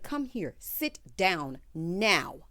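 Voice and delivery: slow, drawn-out bossy order; mock stern command. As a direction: boss her into the chair, word by word. Andy's commanding quote, slowed.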